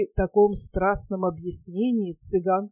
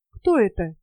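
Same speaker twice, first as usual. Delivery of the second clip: a sharp, jealous, slightly louder cut-in; jealous interruption; 4 dB louder than usual. Acted. Young girl jealously interrupting the captain's boast. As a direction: cut him off, suddenly jealous. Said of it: "перебила его ревниво".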